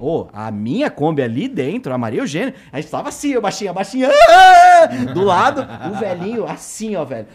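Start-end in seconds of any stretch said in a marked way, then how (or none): 4.1-4.8 high, loud drawn-out "aah"; imitated yell of a speeding driver; loud mock scream. Old man racing his Kombi alongside, mock screaming.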